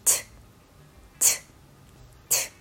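"T" as a bare tongue-tap of air, not the letter name; voiceless phonics T. Shown as a demonstration. Teacher drilling phonics, voiceless burst for "T". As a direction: release a short unvoiced "T" sound. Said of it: "無声音".

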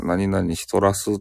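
slow, lightly imitated Nagasaki dialect. Shown as a demonstration. Streamer explaining Nagasaki dialect to viewers, light Nagasaki accent. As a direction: draw out the ending in Nagasaki speech. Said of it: "長崎弁はね".

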